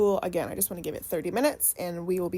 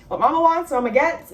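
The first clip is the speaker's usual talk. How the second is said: loud emphatic; 6 semitones higher, 10 dB louder than usual. Real, not acted. Emphatic saying about her mom.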